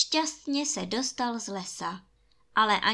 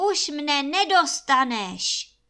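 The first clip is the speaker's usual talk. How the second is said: loud, higher taunting call; 5 semitones higher, 6 dB louder than usual. A narrator's reading. Freed prince calls to the giant, loud triumphant shout. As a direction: call it out triumphantly to someone at a distance. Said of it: "a volal na obra".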